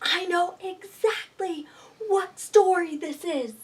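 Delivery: breathless scared whisper; hush, don't wake the wolf. Acted. Spots the wolf in bed.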